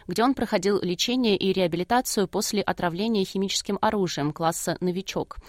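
scripted radio news introduction; news read. Real, not acted. Reads the scripted programme introduction.

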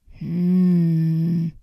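low thoughtful bear grumble; a mild grumbled hm of a bear thinking; pondering bear hum; bear's grumbling hum. Acted. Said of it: "brummte der Bär".

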